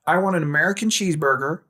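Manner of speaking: a quick, cocky Tony Stark line; Robert Downey Junior impression. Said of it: "possessed by Robert Downey Junior".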